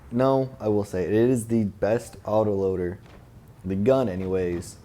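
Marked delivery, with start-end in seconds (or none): none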